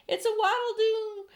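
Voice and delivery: high, loud alarmed yell; frightened yell. A narrator's reading. Fire chief yelling at the creature, high and loud. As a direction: yell it out wide-eyed. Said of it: "yelled the head of the fire department".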